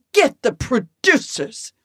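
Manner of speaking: slow, haughty star demand; Bette Davis, imperious. Retold or imitated. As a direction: summon the bosses like a diva. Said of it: "She goes".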